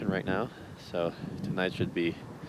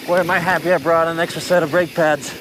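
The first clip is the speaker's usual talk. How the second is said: loud riding shout; 9 semitones higher, 3 dB louder than usual. Real, not acted.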